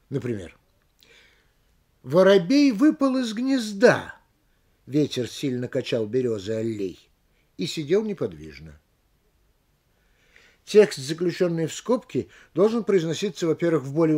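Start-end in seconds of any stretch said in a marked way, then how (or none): 2.0-8.8 «Воробей выпал из гнезда» высоко и громко, после паузы «Ветер сильно качал берёзы аллей» заметно ниже; подними голос до «гнезда», вставку про «Ветер» дай низко, отделив паузами; интонация скобок. Shown as a demonstration. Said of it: "На тексте в скобках понижается". (высокое начало до «гнезда», пониженная вставка от «Ветер» до «аллей», паузы вокруг неё)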